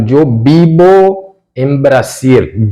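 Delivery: slowly, "yo vivo en Brasil" with a "dj" yo and b for v; slow Spanish model. Shown as a demonstration. Teacher slowly models a Spanish sentence for Brazilian students. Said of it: "Yo, no caso".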